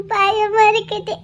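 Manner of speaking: slow, trembling frightened words; crying fear. Acted. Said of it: "இவ இப்படி அழுது நான் பார்த்ததே இல்லையே".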